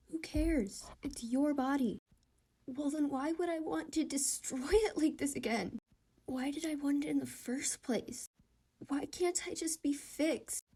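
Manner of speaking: desperate self-directed shouting, building; frantic inner shouting. Acted. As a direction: yell the questions at yourself in rising panic. Inner voice arguing, spiraling.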